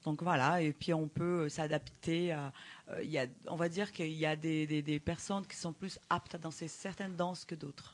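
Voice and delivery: Brazilian accent in French; foreign accent in french. Real, not acted. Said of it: "excuse-moi mon français".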